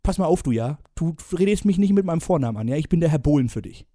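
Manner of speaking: bossy TV judge, fast and pushy; a hint of a stern casting-show judge; Dieter Bohlen. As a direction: lecture him like a pompous pop titan. S0 holds Bohlen role.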